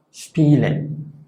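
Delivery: Spielen: la s casi sh ante p; s cerrada alemana. Shown as a demonstration. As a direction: di Spielen con dientes juntos. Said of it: "si está antes de P". (Spielen con s cerrada)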